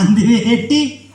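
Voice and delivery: very slow, stretched questioning repeat; puzzled echo. Acted. Ventriloquist querying the puppet's answer, puzzled. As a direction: drag it out in mock puzzlement.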